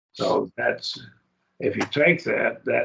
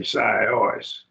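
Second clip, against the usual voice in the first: sios drawn out with weight on both syllables; both syllables accented. Shown as a demonstration. Teacher showing double accent, sios stressed on both syllables. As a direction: stress each half of sios evenly, slowly. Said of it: "You accent both syllables".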